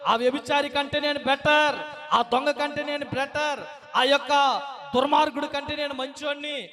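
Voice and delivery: a Pharisee bragging before the crowd; smug boast. Acted. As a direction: crow about your own goodness.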